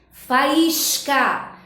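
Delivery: "Faísca" spaced out, with the accented I held long; syllables separated. Shown as a demonstration. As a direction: pull "Faísca" apart, leaning on the I. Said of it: "Quando você separa".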